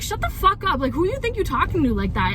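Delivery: retold indignant telling-off, starts high-pitched; high-pitched burst of outrage, easing as it goes; angry comeback. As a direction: re-enact snapping back at a rude stranger. Retelling her angry comeback.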